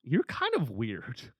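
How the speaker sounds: mock dismissive drawl. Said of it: "And they go".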